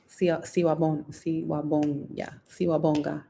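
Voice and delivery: siwabonga built up in pieces, siwa then siwabon, then whole; working out siwabonga. Shown as a demonstration. Thanking viewers, stumbling through siwabonga. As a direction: piece together siwabonga syllable by syllable. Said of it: "Is that right?".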